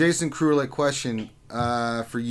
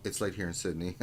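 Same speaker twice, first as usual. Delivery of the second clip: tiny, soft aside voice; small voice; 6 semitones lower, 11 dB quieter than usual. Retold or imitated. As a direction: read it in a small quiet voice. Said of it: "in real small".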